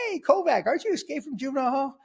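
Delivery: high-pitched retold holler of recognition; imitating a surprised police captain; captain calling out. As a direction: call out as the captain spotting someone.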